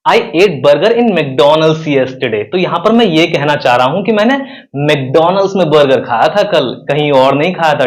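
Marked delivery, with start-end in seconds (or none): 0.1-2.4 "McDonald's" punched in "I ate burger in McDonald's yesterday"; stress on McDonald's. Shown as a demonstration. Teacher shows stress on the place. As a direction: hit "McDonald's" firmly. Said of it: "अगर मैं McDonald's पर जोर दूं".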